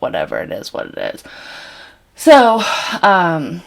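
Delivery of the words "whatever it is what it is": resigned whisper. Real, not acted. Resigned aside about hiccups.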